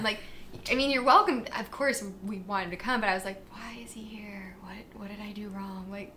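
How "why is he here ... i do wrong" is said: hushed, half-whispered puzzlement; bewildered inner voice. Retold or imitated. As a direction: wonder under your breath, acted out. Retelling her private bewilderment.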